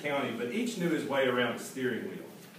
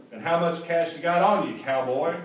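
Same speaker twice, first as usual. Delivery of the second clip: louder, higher, doubting salesman; mock suspicious salesman; 4 semitones higher, 6 dB louder than usual. A narrator's reading. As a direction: size up the cowboy, half teasing. Salesman challenges Clayton.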